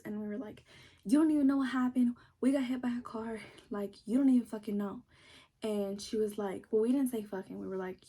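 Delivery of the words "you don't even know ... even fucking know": indignant comeback, hitting the first words hardest; mock indignant retort. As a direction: fire back as if wrongly accused. Retelling indignant retort to aunt.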